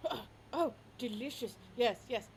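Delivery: yapping dog; possessive dog. Acted. Dog claims toy.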